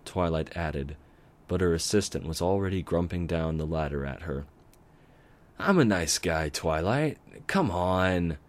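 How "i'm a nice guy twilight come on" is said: mild pleading, a touch louder; begging. Acted. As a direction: plead your case. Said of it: "he begged".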